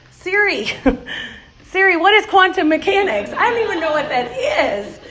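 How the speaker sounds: teacher mock-panicking at a hard question; panicked plea. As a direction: beg the phone for help in a hammed-up panic. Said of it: "I'm like".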